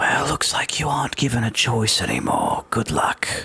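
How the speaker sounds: soft, hushed, whispery close whisper. Voicing a character so only Alira can hear: soft whispery voice. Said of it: "in that same whispery voice".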